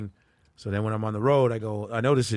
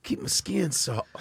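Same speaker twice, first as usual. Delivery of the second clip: slow, laughing mock apology; laughing through the bit; 5 semitones higher than usual. Comic quoting a friend's bit while laughing. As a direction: giggle through his lines. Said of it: "the fucking way he goes".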